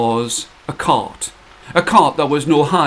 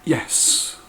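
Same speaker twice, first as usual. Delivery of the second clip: whispered yes; 7 dB quieter than usual. Acted. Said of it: "And the old man looked at her and said".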